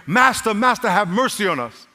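high, urgent preacher's retelling of a plea; crying out. Acted. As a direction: call out for mercy from a distance. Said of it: "they cry out to him".

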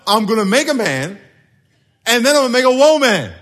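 decisive, every word placed; confident God, rising to a strong finish; deliberate. Retold or imitated. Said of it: "He said".

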